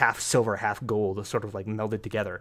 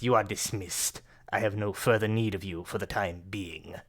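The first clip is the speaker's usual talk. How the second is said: cold villain. Acted. Villain Akar Kessel belittles his servant, lightly voiced scorn.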